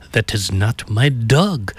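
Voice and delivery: put-on slow, lightly accented movie character; measured mock-European punchline, drawn-out words; hotel guest impression. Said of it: "the customer says".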